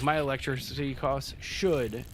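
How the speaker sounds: "should" punched at the end of the phrase; emphasis on "should". Real, not acted. Renter complaining about power bills, heavy emphasis on "should". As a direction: hit "should" hard, then break off. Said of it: "emphasis on the word should".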